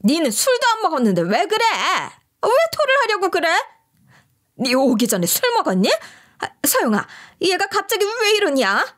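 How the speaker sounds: retold shrill mother-in-law yell. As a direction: yell at her as if she's faking. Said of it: "막 소리를 치시면서".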